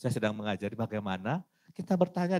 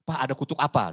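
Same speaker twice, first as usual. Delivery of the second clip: blunt question; 4 semitones higher, 7 dB louder, faster than usual. Retold or imitated. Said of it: "Jadi tanya jangan".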